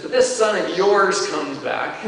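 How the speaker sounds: slow, resentful stress on "this"; bitter older brother. Acted. Older brother complains bitterly to his father. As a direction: spit out "this son of yours" with grudging contempt. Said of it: "You love the bitterness there".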